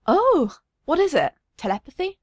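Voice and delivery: a high, wondering gasp of a question; amazed. Acted. Father amazed at his daughter's floating toys, voice rising in wonder.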